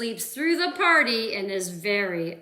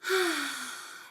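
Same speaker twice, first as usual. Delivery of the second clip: contented sigh; 4 semitones higher than usual. Acted. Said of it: "he sighs with delight".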